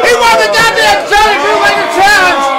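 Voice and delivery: rowdy chug chant, shouting; frat bro. Real, not acted. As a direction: hype him up like a frat party. Crowd-style cheering a chug.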